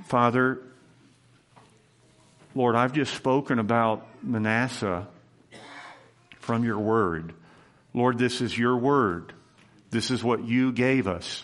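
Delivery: earnest, measured prayer voice; closing prayer. Acted. Pastor leading the church in prayer after the sermon, earnest. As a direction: pray sincerely for the congregation.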